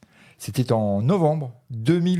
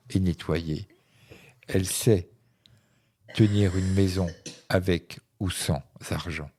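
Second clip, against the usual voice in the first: lecture littéraire. Acted. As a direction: lecture posée, phrases séparées par des pauses. Lit un autre extrait. (lecture à voix haute, posée et sobre)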